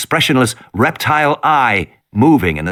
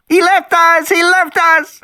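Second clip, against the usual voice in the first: screaming wail; slower than usual. Acted. Lex wailing in the car while the T-rex attacks. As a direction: wail it over and over like a terrified child. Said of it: "Lex was screaming ... monotonous wail".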